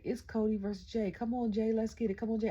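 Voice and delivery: retold hype, urging him on; excited cheering. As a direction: re-enact cheering on your favorite. Re-enacts cheering Jay on.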